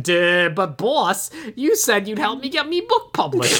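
botched henchman voice sliding toward Irish or Cockney; dumb henchman. Retold or imitated. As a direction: play a dim lackey, accidentally Popeye-like. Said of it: "more like the dumb henchman".

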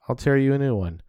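mock-threaten like Dad, half joking; Dad impression. A boy doing his dad's angry threat for his friend. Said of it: "Let me try".

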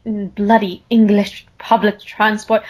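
half-hearted put-on English accent; bad English accent. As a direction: attempt a clumsy English accent. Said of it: "I can't even do a good English accent".

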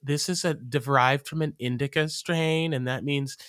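a light dreamy hippie voice; lightly voiced spacey hippie lady. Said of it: "she's got this hippie voice".

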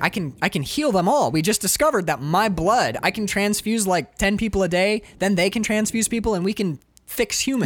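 keyed-up would-be saviour; excited pitch. Acted. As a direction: rattle off the plan like a breakthrough. Acting hero's excited cure pitch.

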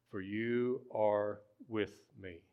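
slow and soft, word by word; slow Psalm reading. Real, not acted. Pastor returning to the key verse, slow and soft. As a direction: space out each word softly. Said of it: "We're just gonna read it slow".

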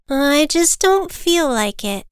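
high, slow reluctant whine; whiny child bird. Acted. Little Bird refuses his mother's order, whiny. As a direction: drag out the refusal like a sulky child.

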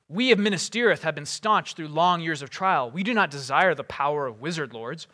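impassioned speech, building from impatient to fervent; Boromir's impatient cry. Acted. Warrior urging Frodo to use the ring, impatient and building. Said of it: "walked about impatiently".

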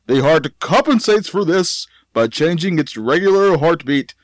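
doctor voice. Pretend. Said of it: "Maybe if you put on a doctor voice".

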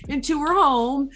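amateur mock Italian storytelling; Italian accent. Recapping Edward Scissorhands for friends, put-on Italian accent. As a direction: retell it in a shaky attempt at an Italian accent. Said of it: "I'm trying to get the accent".

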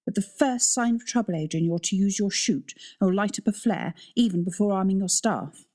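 a hint of a stern head teacher; lightly firm schoolmistress instruction. Vesta lays down rules to Adrian, lightly stern head teacher tone. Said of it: "adopting her head teacher tone of voice".

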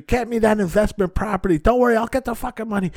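high, loud mock insistence; imitated wheeler-dealer, worked up and pitched high; agitated phone rant. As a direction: act out a man ranting down the phone. Acting out exterminator's phone rant.

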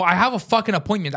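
high, indignant protest; mildly yelled retold complaint; retold screaming. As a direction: assert it in exasperation. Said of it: "losing my shit and screaming at her".

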